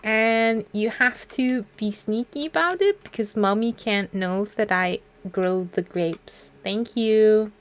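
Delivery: mock the writer as a little kid; mock childish letter. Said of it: "getting angry about video games".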